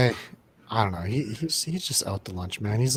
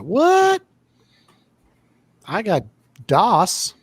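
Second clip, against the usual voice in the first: mock squeak; 7 semitones higher, much slower than usual. Mocking man-spreading guy.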